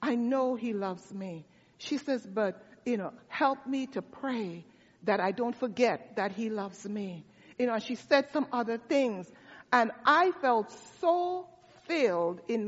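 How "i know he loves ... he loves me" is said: softer, hushed, as if into someone's ear; retold whisper. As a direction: gently voice her quiet plea, much softer. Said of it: "she whispered in my ear".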